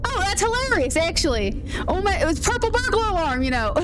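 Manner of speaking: high, lilting Scottish; Scottish accent. Shown as a demonstration. Streamer showing chat a Scottish accent. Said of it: "I could probably do a Scottish accent".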